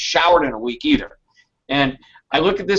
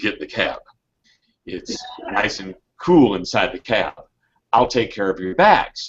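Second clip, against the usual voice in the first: put-on very low, deep voice with Texas accent; 7 semitones lower than usual. Retelling what a man by a cab said, in a deep Texan accent. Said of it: "in his deep Texan accented voice".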